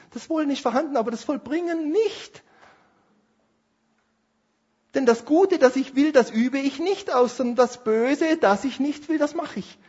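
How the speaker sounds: high, pressing, nearly pleading voice; anguished confession. Acted. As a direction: voice the torn man who cannot stop. Voices Paul's inner struggle. (hoch und gequält, wie ein verzweifelter Bekenner)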